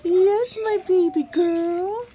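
slow, high cooing. Real, not acted. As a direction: coo tenderly at a pet. Cooing at pet.

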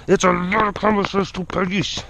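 garbled goofy put-on voice; mock silly echo, words smeared. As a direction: repeat it playfully with mangled sounds. Line repeated in silly voice.

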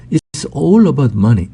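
very slow, every word laid out; slow, careful example sentence; slow model reading. Shown as a demonstration. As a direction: read it slowly for learners to copy. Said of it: "model sentence read slowly".

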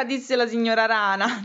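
put-on lively storytelling for small children; story narration. Reading a picture book about frogs and a lost hat, storytelling voice. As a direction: read the tale expressively, giving each figure a lift.

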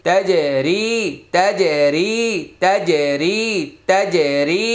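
তাজে রি with bounced j and long রি; qalqalah and madd. Shown as a demonstration. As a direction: bounce the j, then hold রি. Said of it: "জিমে জজম কলকলা".

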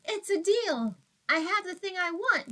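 high, gleeful squeal. Acted. Minosaur squeals to his new friends, delighted squeal. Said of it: "he squealed".

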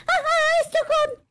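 high, loud startled cry; cold shock yelp. Acted. Washing his hands in cold water, yelping at the shock.

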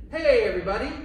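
loud, high call to the class; cheerful shouted signal; yelled call. Shown as a demonstration. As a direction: shout it out so everyone freezes. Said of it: "Let's practice".

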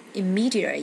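"immediate" with ME stressed; stress on second syllable. Shown as a demonstration. Teacher showing word stress to students, "immediate" stressed on ME. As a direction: slowly lean on the ME in "immediate". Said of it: "nhấn âm hai".

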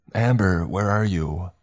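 calling out high and loud; shouting. A narrator's reading. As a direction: call across the clearing for her. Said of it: "Will shouted".

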